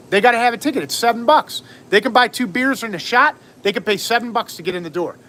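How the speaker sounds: heated retort. Retold or imitated. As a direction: lay down the law on tickets, voice climbing. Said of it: "I said".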